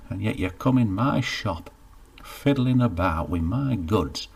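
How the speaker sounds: a hint of a cross shopkeeper telling off a browser; grumpy baker. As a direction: scold him for fingering the goods. Baker scolds Geoffrey.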